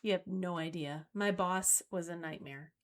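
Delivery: mildly worn-out spouse venting; sighing. Acted. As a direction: let it out on a sigh, quietly. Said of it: "They might sigh and say".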